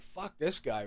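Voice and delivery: very soft aside to himself; retold muttered thought. Fed up with the man nodding off, muttered. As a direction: keep the irritation right down under your voice.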